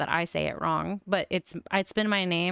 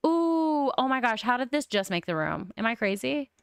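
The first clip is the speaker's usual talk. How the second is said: excited; 5 semitones higher, 3 dB louder than usual. Real, not acted. Delighted at the bed.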